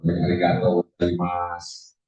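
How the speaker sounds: "Arigato gozaimasu" drawn out slowly, each syllable clear; stretched teaching model of "Arigato gozaimasu"; slow model phrase. Shown as a demonstration. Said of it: "yang ada Ohayo gozaimasu gitu".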